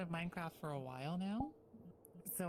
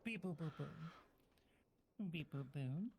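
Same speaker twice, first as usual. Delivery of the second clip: robot beep boops. Pretend. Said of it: "cursed to talk only in beep boops".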